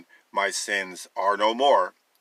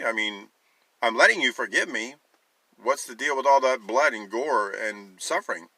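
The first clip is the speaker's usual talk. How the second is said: sarcastic; 3 semitones higher than usual. Acted. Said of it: "I know I can sound sarcastic sometimes".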